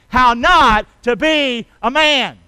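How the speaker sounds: slow, loud, word by word; big spaced-out beats for a crowd to join; say-along. Shown as a demonstration. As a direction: lead the congregation in chanting it. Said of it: "Can you say that with me today?".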